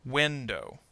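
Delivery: "Window" with WIN strong, dow weaker; first-syllable stress. Shown as a demonstration. Teacher gives two-syllable noun example, "Window" stressed on WIN. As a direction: put the beat on WIN in "Window". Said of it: "stress on the first syllable".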